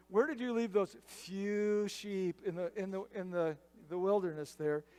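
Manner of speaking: imitated drip of sarcasm; sarcastic. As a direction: belittle him, drawing out "few". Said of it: "the drip of sarcasm there".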